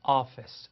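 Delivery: office said as afes; teacher models office. Shown as a demonstration. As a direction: say office with an open first vowel. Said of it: "그다음에 office".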